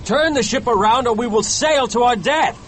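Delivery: high, urgent warning; alarmed cry in character. A narrator's reading. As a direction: plead loudly with the captain. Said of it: "cried Starbuck".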